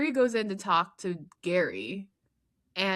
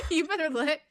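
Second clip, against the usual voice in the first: sassy warning; 5 semitones higher, faster than usual. Retold or imitated. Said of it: "I was like".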